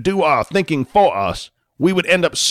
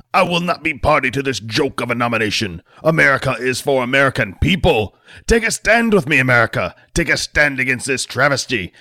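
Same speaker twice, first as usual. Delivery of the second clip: fire-and-brimstone senator, slowing on the final slogans; rising voice; 5 semitones higher than usual. Acted. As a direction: whip up the crowd until you're nearly yelling. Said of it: "His voice started to rise".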